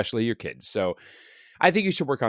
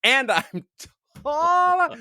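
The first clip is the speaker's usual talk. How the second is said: hammed-up boast; 13 semitones higher, much slower than usual. Joking boast echoing co-host.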